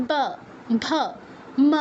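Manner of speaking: ব ভ ম with lips closed, then released; two-lip labials. Shown as a demonstration. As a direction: say ব ভ ম separately using only the lips. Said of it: "সেমভাবে". (ব ভ ম, শুধু দুই ঠোঁটে)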